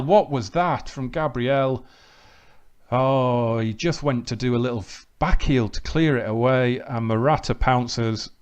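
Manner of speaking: lively match commentary, rising with each chance; live play-by-play. Real, not acted. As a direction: call the action as it happens. Commentates his own match highlights.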